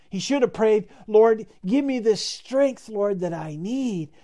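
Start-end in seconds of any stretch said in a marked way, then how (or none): 1.1-4.1 earnest prayer. Acted. How he should have prayed.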